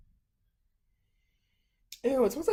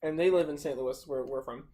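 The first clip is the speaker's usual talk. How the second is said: talking with a mouthful; words round a bite of food; mouth full. Real, not acted. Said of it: "shouldn't eat while you're talking".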